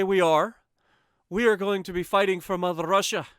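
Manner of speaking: loud, hammed-up mock Russian accent; a rally cry in a cartoon Russian accent; bad Russian accent. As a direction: boom it out in a terrible fake Russian accent. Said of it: "that is a terrible accent".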